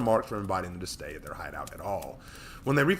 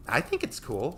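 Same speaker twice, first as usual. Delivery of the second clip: put-on giggling little girl; 5 semitones higher than usual. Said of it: "Sarah giggled".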